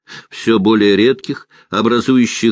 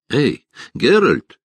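calling out; 7 semitones higher, slower than usual. A narrator's reading. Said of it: "крикнул Богольд".

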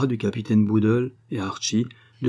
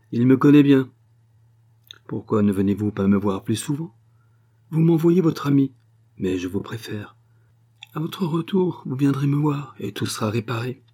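higher, louder scheming Russian spy, sweetly insinuating; Sophie's voice; 4 semitones higher, 4 dB louder than usual. Acted. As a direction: play the schemer, sugary and sly. Sophie continues to Archie. (voix haute et mielleuse d'intrigante)

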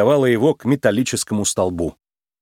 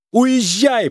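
much higher, urgent shout; 10 semitones higher than usual. A narrator's reading. Judy shouts to Nick to leave without her. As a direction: yell at him to go. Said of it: "прокричала Джуди".

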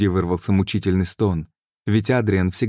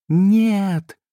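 much higher, loud shriek; 13 semitones higher, 3 dB louder than usual. A narrator's reading. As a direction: squeal it in terror. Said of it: "взвизгнула Габриэль".

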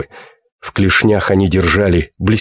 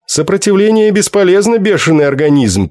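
alien machine voice; 10 semitones higher than usual. A narrator's reading. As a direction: speak like a cold alien translator. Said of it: "произнёс словарь".

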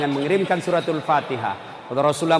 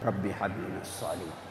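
much softer, lower whispered prayer; 10 semitones lower, 14 dB quieter than usual. Retold or imitated. Preacher whispering prayer into the boy's ear, very soft. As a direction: breathe it into the ear. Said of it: "saya bisik telinganya".

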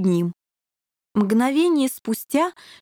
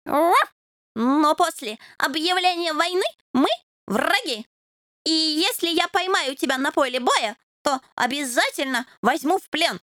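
higher, earnest little knight; earnest warning; 6 semitones higher than usual. A narrator's reading. Puppy warns the devil he'll take him prisoner. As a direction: warn him gravely.

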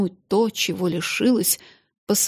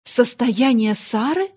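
shocked question; 4 semitones higher, 4 dB louder than usual. Acted. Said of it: "побледнев".

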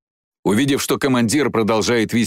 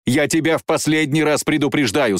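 final warning; 5 semitones higher than usual. Acted. Jane warns her pursuer.

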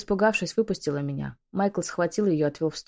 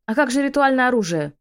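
higher and louder, frantic demanding cry; frantic shout; 6 semitones higher, 7 dB louder than usual. A narrator's reading. Witch bursting into the yard, shrieking demands. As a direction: burst in screaming for answers. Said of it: "ворвалась во двор с воплем".

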